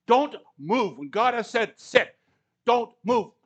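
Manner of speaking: loud preaching shout; emphatic command. Real, not acted. Preacher urging the congregation to stay put, loud. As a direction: drive the command home.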